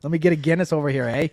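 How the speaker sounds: quick mock Canadian accent; hammed-up Canadian pub order. Joking about how Canadians talk, mock Canadian accent. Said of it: "is that even how they talk".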